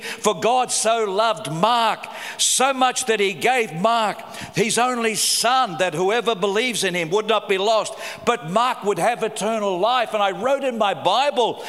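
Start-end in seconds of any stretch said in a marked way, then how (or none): 0.0-10.1 slow scripture reading with his own name; slow, deliberate reading. Real, not acted. Pastor reading his name into the verse, slow and deliberate. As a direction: read the verse slowly, savouring each word.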